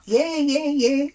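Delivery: high-pitched, placating string of agreement; humouring. Retold or imitated. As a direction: humour an overexcited admirer, voice way up. Acted reply humouring the fan.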